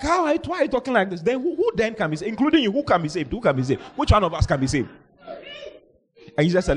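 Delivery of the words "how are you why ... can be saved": acted shock. Disciples question Jesus about who can be saved, shocked. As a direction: tumble out the disciples' incredulous questions. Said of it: "so they were shocked".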